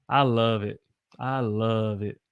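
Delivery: stretched-out "love"; Southern held love. Shown as a demonstration. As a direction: hold the vowel in "love" Southern style. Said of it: "You hold it".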